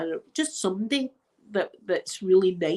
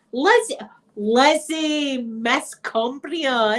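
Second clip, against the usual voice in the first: calling a name; 5 semitones higher, much slower than usual. Real, not acted. Calling out to a viewer.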